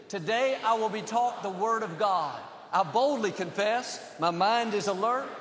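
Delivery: emphatic declaration. Real, not acted. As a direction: recite it like you mean it. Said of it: "Say it like you mean it".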